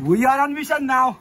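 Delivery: slow, high, loud movie-trailer line; dramatic announcer. Pretend. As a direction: announce it like an epic mission.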